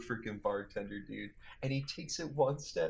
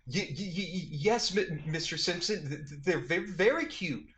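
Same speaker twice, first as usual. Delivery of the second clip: starstruck stammer, a little higher; stuttering; 4 semitones higher than usual. Retold or imitated. To O J Simpson, starstruck stuttering. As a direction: stammer it out, awestruck. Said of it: "I'm stuttering".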